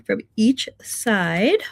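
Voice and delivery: slow, stretched through a yawn. Real, not acted. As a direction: finish the phrase still yawning. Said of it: "I'm yawning 'cause I'm tired".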